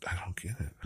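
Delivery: hushed unvoiced whisper. Real, not acted. Musing to herself in a whisper. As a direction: drop to a whisper.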